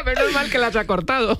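amused, laughter in the voice; laughing. Real, not acted. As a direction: say it while still laughing. Laughing remark about the list.

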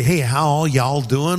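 slow mock Texas drawl on "y'all"; a hint of Texas accent. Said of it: "'Cause I don't say".

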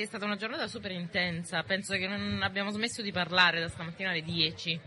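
tired, worn-out voice after a long day; voice giving out. Real, not acted. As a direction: voice almost gone, speak through it. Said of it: "Non ho più voce". (voce che se ne va, stanca)

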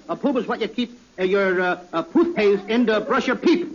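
mock P for T, ending in a laughing shout; caught lisping P. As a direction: slip into the P-for-T habit without meaning to. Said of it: "Now the guy's got me talking like that".

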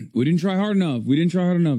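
mock whine. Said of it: "It's always our fault".

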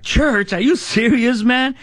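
high, disbelieving "Church?"; incredulous. Retold or imitated. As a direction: act like the idea of church is absurd. Incredulous reply to friend.

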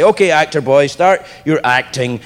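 too busy to look up, lightly acted; lightly mock a producer who can't be bothered; dismissive producer. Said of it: "pretend that they're, uh, too busy to look at you".

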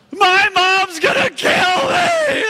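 slow, high, loud panicked yell; slow high shout of dread. Retold or imitated. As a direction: yell so the whole beach hears. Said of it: "what I yelled for the entire beach to hear".

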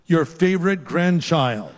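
slow with a laugh; amused reading. Retold or imitated. Grandparent reads the phone contact name, laughing. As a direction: read the nickname with a chuckle. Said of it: "instead put in".

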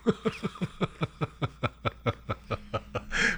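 quiet wheezing laugh. Real, not acted. Laughing after joke.

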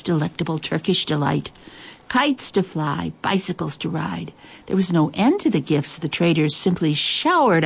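measured, expressive picture-book reading; story narration. A narrator's reading. Host reads a cat story to listeners, story narration. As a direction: read it aloud with lingering pauses between phrases.

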